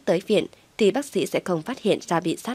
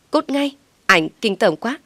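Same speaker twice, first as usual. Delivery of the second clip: loud, higher furious yell; angry shout; 4 semitones higher, 4 dB louder than usual. Acted. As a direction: shout him out in disgust. Đuổi Thành đi.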